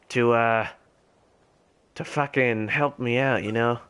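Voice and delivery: put-on gamer holding a posh English RP accent. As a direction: stay in a lightly done British RP voice. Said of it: "different accent for my R P character".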